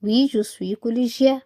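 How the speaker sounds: very slow, every syllable clear; slow reading aloud. Shown as a demonstration. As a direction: spell out the answer slowly. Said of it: "أيوة يعني oui". (قراءة بطيئة واضحة)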